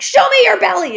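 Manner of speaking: very high, shrill, very loud scream. Recounting a scene about Rose's coaching duties, the speaker is retelling Rose screaming. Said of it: "she's screaming at Don Cheadle".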